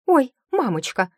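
high, loud startled exclamation; startled cry. A narrator's reading. Startled maid exclaims as the cat dashes past. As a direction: throw up your hands and gasp it out.

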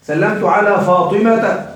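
فاطمة said slowly as "Faatimata"; slow down and sound the final "-ta" on فاطمة; fatha case ending. Shown as a demonstration. Teacher showing a diptote after a preposition, فاطمة slowly ending in "-ata". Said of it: "هذه تجر بالفتح".

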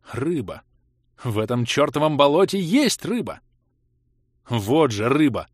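rising indignant exclamations; excited outburst. A narrator's reading. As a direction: blurt it out in disbelief. Narrator shouts about fish.

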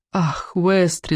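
slow, mildly tearful lament; crying. Acted. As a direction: draw it out with a touch of weeping. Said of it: "заплакала я". (протяжно, чуть плачущим голосом)

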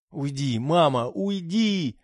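high, desperate cry to go; screaming. A narrator's reading. Daughter crying at mother to leave, high. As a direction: beg her to leave. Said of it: "закричала Сьюзи".

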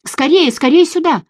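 loud, high panicked calling; frightened shout. Acted. Miriam begs narrator to hurry, loud panicked call. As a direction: call for help, frantic. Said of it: "кричала Мириам".

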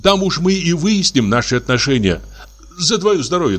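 high, buoyant, happy voice; joyful. Acted. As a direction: lift up with sudden joy. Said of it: "прилив радости".

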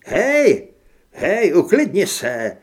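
high, very loud protest; alarmed shout. A narrator's reading. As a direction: cry out to stop an armed man. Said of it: "vykřikl Grant". (polekaný výkřik)

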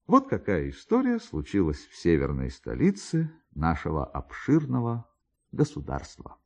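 usual speaking voice

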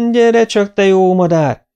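high, loud scolding call; anyai rákiáltás. A narrator's reading. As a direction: shout at your naughty son. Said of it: "kiáltott rá az anyja". (dühös, magas, hangos rákiáltás)

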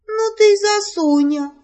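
high, loud teasing exclamation. Acted. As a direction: cry it out in cheerful surprise. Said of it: "воскликнула Лея". (Лея громко и высоко восклицает, дразня соню)

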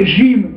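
Algerian-Moroccan "Jim", no d at the onset; Maghrebi pronunciation. Shown as a demonstration. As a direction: say "Jim" starting like French "je". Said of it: "Algerier oder Marokkaner".

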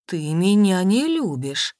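slow, a touch of dawning surprise; surprised. Acted. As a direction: say it as if discovering America. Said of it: "уже с удивлением отметила".

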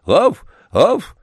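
two high, loud woofs; plaintive bark. A narrator's reading. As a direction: bark twice, pitiful and reluctant. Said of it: "жалобно моргая глазами".

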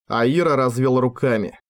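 usual speaking voice

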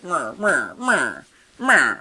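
repeated whiny "meh" noises; mock grumbling noises. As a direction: imitate an irritated swipe with silly noises. Imitates hitting them in irritation.

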